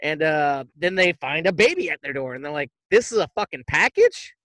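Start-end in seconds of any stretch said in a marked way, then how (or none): 2.9-4.3 incredulous, indignant questioning; mock-outraged bachelor, stretching the questions; mock disbelief. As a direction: act out baffled outrage at the delivery. Acting out bachelors' shock at baby.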